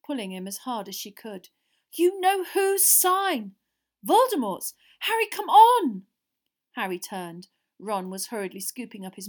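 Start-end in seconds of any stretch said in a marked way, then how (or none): 1.9-6.1 high, loud, stretched-out alarm; terrified urging. A narrator's reading. Hermione dragging Harry from the skull, frantic plea. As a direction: plead desperately, building to a cry.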